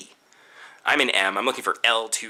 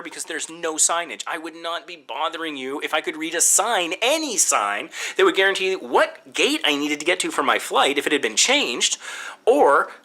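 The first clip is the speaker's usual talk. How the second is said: rising, pressing exasperation; exasperated plea; 5 semitones higher than usual. Retold or imitated. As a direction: plead with mounting frustration. Frustrated plea to agent.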